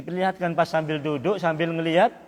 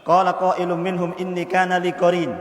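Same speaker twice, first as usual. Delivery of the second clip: forceful recitation; 5 dB louder than usual. Acted. Preacher re-recites verse forcefully.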